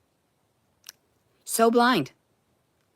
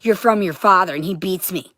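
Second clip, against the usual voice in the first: louder, higher harsh retold mother; mother's harsh words; 4 semitones higher, 6 dB louder than usual. Retelling what mom always said, louder and harsh. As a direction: bark out the mother's nagging. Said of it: "She always told me".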